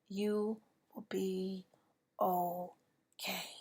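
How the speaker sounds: slow, tearful reassurance; voice breaking. Real, not acted. Speaker assuring grieving listeners, voice breaking. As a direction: let the voice crack on okay.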